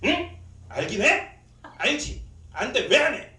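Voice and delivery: loud, high snapped questions; sharp, irritated. Retold or imitated. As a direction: re-enact snapping at the congregation. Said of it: "막 약간 날카로워져". (날카롭게 쏘아붙이듯 크고 높게)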